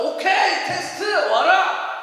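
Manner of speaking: drawn-out, loud defiant welcome; bold challenge. Acted. A believer daring the test to come, bold challenge. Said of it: "우리는 신앙생활 하면서".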